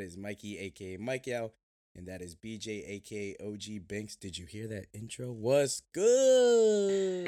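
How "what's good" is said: loud hype greeting; excited shout. Real, not acted. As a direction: shout it out to the crew.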